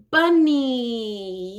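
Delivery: whispered "bunny" with a clear B. Shown as a demonstration. Therapist whispering the word for a child to copy. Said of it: "if I were modeling it to them".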